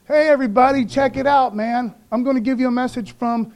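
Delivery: grab the whole wall's attention; calling out. Retold or imitated. Rabshakeh calls out to crowd.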